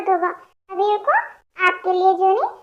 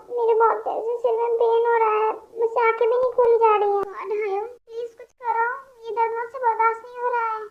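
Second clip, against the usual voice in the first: pained and weak; 3 dB quieter than usual. Acted. Sick girl complains of headache.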